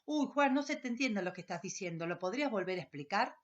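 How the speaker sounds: even volume, unhurried and respectful; calm, polite request. Shown as a demonstration. Teacher showing students the polite way to ask Juan, calm. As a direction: ask kindly without challenging. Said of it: "habla de modo fluido y no desafiante".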